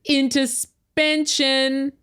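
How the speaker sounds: slow, stretched-out title reveal; drawn-out announcement. Pretend. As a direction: announce the word slowly, syllable by syllable. Announcing the episode's punning title.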